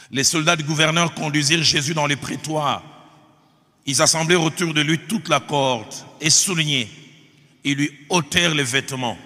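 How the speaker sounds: emphatic, deliberate pulpit reading; Scripture reading. Acted. Preacher reading the Passion to his congregation, emphatic Scripture reading. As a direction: read it out firmly to the congregation.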